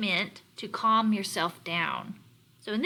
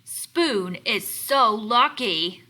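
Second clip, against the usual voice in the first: reading Chopsticks' line; 5 dB louder, much slower than usual. Acted. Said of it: "said Chopsticks".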